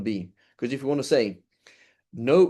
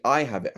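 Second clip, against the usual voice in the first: I given the emphasis; stress on I. Shown as a demonstration. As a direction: lean on I as a correction. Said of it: "there's intonation".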